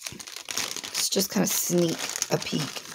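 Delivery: soft unvoiced whisper; sneaky whisper. Real, not acted. Crafter whispering as she peeks into the kit. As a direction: hush it like peeking at a secret.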